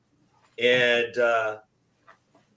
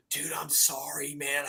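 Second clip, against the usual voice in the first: sheepish apology; 8 dB quieter than usual. Retold or imitated. President apologizing for long meeting.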